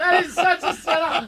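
high-pitched, amused outrage; indignant protest. Real, not acted. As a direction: cry foul at a rigged game. Protesting the rigged question.

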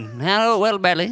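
mock an Oscar-bait trailer line; Bradley Cooper as Bernstein. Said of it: "It's a weird voice".

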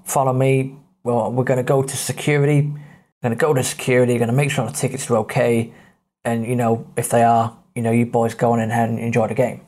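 lightly voiced low-pitched officer; deep husky policeman. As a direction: take charge with a hint of a deep cop voice. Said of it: "very deep, husky voice".

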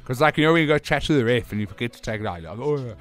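talking around a mouth guard; words slurred by a mouth guard. Real, not acted. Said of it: "It feels weird to be wearing a mouth guard again".

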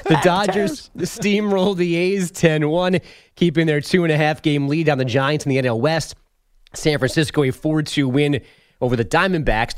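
measured radio score recap; sports news read. Acted. Update anchor giving listeners the baseball scores, news read. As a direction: land each number like an update anchor.

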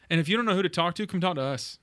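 fighting tears, pushing through; holding back tears. Real, not acted. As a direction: voice tight with held-back tears. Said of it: "I'm trying not to cry".

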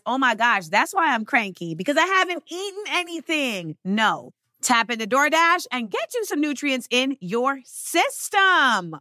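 casual, chatty sponsor read. Acted. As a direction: sell it like a friend's tip. Host reads DoorDash ad.

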